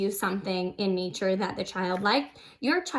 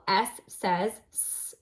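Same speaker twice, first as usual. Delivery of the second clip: slow sounding out; slower than usual. Shown as a demonstration. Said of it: "listen for the beginning sound".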